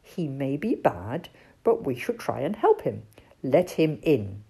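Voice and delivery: low, calm owl voice; wise old owl. Acted. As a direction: counsel like a gentle old owl. Owl's voice.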